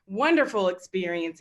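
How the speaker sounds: pointed sarcasm, pitch jumping on wonderful; sarcastic. Real, not acted. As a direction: lean on wonderful with mock enthusiasm. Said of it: "I'm using that very sarcastically".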